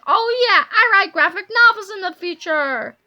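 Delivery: loud, slightly milder crowing; gleeful shout. A narrator's reading. Boy celebrates his future career, crowing loudly. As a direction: crow about it loudly. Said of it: "screamed George".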